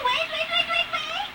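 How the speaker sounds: laughing. Real, not acted. Rushing, laughing at sister.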